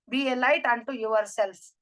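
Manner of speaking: very slow, word by word; slow solemn quote. Shown as a demonstration. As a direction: lay out each word slowly like a motto. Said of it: "ಇದನ್ನ ನಮ್ಮ P S C ಸೆಮ್ ನ ಲೋಗೋದಲ್ಲಿದೆ". (ತುಂಬಾ ನಿಧಾನವಾಗಿ ಗಂಭೀರ ಉಲ್ಲೇಖ)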